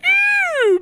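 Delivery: high surprised gasp. Acted. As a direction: jump up in surprise. Big surprised oh.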